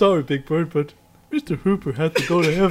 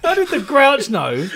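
laughing; 8 semitones higher than usual. Real, not acted. Laughing question.

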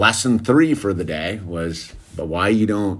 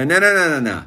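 retold interrupting; 5 semitones higher, faster than usual. Dad cuts off son's excuse.

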